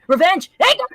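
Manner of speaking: dramatic. Acted. Dramatic narration.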